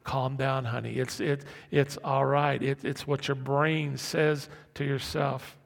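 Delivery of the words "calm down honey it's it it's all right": calming voice of reason. Acted. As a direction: soothe a panicking loved one. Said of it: "prefrontal cortex is very logical".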